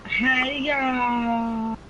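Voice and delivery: high, flirty Southern greeting; coy drawn-out hello; flirtatious. Pretend. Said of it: "It sounds very flirtatious".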